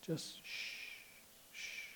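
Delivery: soft whispered shh; shushing. Shown as a demonstration. Preacher hushing the congregation, whispered. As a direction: hush them gently. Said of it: "just be silent".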